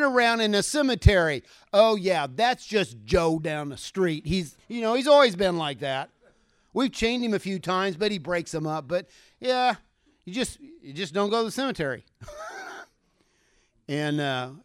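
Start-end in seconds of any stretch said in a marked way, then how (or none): 1.7-12.1 casual townsfolk. Acted. Mocking indifferent townsfolk. 12.2-12.8 high laugh. Real, not acted. Laughs at own joke.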